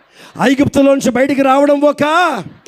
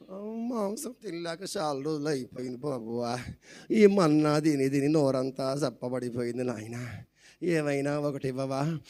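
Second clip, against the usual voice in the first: whining Israelites; 9 semitones lower, 15 dB quieter than usual. Retold or imitated.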